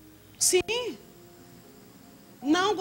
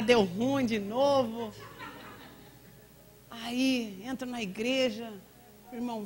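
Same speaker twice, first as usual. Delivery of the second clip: ordinary talk, nothing marked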